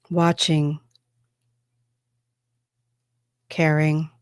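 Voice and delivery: measured, solemn spokesperson from another world; channeled extraterrestrial. Acted. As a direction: speak as a trance channel, in deliberate phrases with long pauses. Speaks as a channeled extraterrestrial being.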